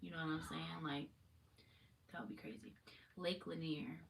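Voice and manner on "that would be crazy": whisper. Real, not acted. Aside while reading search results.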